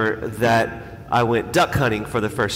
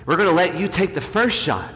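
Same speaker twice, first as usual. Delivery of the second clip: higher-pitched, mock-kind offer; retold kindly invitation, pitched up; 5 semitones higher than usual. Friends offering the nervous rookie the first shot, kindly. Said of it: "very kindly, they say".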